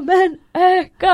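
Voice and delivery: high, long yelled command; loud, stretched-out acted urging; shouted order. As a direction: holler it as an impatient order. Retold officer shouting to speed up.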